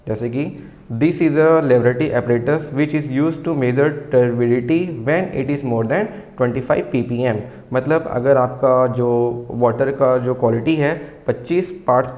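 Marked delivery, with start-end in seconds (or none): 0.9-7.4 very slow, word by word, for students to write down; slow dictation. Shown as a demonstration. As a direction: dictate each word clearly so the class can copy. Teacher dictating textbook line.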